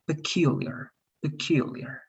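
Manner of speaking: "peculiar" as pe-CUL-iar, middle syllable stressed; corrected word stress. Shown as a demonstration. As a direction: model "peculiar" with weight on "kyool", falling after. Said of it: "but the stress".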